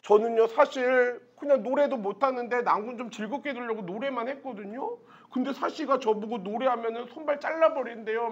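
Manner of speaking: softly voiced innocent tattletale; mildly acted wheedling lie to a husband; feigned innocence. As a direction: plead lightly, as if wronged. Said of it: "유알림한테 이제 거짓말로 이러는 거지".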